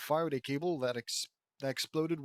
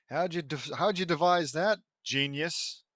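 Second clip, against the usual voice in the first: louder, mocking "genius"; sarcastic; 2 semitones higher, 4 dB louder than usual. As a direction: tease him for stating the obvious. Sarcastic praise of Vince.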